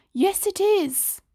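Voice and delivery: put-on high, slow stubborn boy; insisting child. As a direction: drag it out stubbornly.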